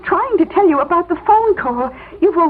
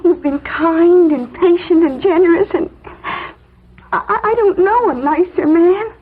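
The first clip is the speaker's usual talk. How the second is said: choked up, stammering with emotion; tearful praise for a kind boss. Acted. Secretary comforting the fired boss.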